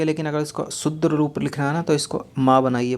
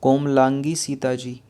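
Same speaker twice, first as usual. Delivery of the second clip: slow; slower than usual. Shown as a demonstration. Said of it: "क्या?".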